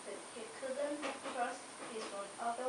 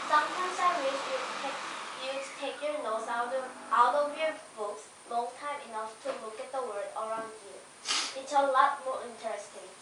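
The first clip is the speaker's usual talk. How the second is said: a touch of a nagging wife, a bit louder; wife's nagging; 5 dB louder than usual. Acted. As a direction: read it like a scolding wife. Student reads wife's scolding lines.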